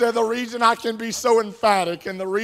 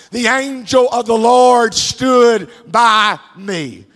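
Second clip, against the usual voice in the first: slow proclaiming; 4 dB louder, slower than usual. Acted. Preacher proclaiming Paul's words.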